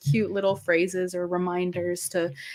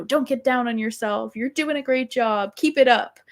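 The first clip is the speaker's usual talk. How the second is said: higher-pitched, lightly imitated motivational voice; high-pitched cheerleading; 5 semitones higher than usual. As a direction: pitch it up to imitate upbeat encouragement. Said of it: "really high-pitched voice".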